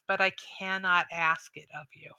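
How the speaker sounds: "cannot" set apart and weighted; stress on cannot. Acted. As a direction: lean gently on "cannot". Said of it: "she stresses that word".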